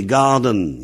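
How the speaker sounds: garden said the English way; English word. Shown as a demonstration. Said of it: "En anglais".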